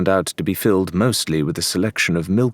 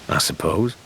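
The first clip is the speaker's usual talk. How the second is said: evenly; 2 semitones lower than usual. A narrator's reading. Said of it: "Shan said evenly".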